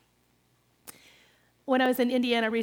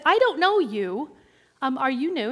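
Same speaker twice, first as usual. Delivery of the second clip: friendly greeting; 2 semitones higher, 8 dB louder than usual. Retold or imitated. Aerobics regular greeting a new lady, bright and loud. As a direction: greet a newcomer cheerfully. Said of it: "and I said".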